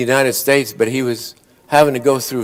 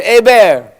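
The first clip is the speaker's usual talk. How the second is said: calling out; 6 semitones higher than usual. Retold or imitated. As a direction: yell the punchline to a friend. Punchline shouted to a friend.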